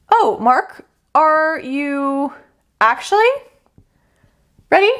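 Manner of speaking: a knowing cosmic voice testing him; universe doubting Mark. Acted.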